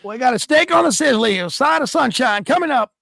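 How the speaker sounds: high, raspy diner waitress voice. Pretend. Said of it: "Raspy diner waitress voice on God".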